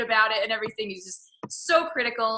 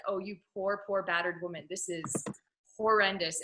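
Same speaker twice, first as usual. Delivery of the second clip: pitying sigh; 6 dB quieter than usual. Retold or imitated. Pitying the wife.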